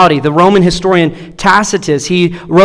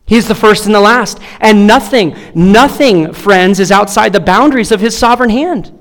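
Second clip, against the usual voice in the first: big ringing preacher's cadence building to a peak; preaching at full force. Acted. Pastor preaching to his church at full force. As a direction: proclaim it over the congregation. Easter sermon climax.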